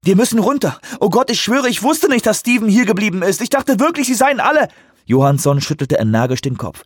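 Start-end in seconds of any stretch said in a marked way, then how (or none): 0.0-4.7 hohe, panische Stimme; verzweifelt. Acted. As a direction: fleh verzweifelt und gehetzt. Verzweifelter Ausbruch im Helikopter. (verzweifelter, panischer Ausbruch)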